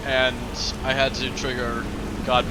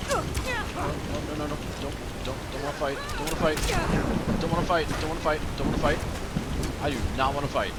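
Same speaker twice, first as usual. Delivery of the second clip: mock panic; 6 semitones higher, faster than usual. Pleading with attacking guards.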